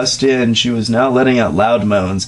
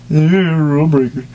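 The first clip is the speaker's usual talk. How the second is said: mock-impressed; 3 semitones higher, slower than usual. Mocking aside.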